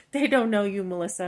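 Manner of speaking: giving herself a firm pep talk; firm self pep talk. Retold or imitated. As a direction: build yourself back up.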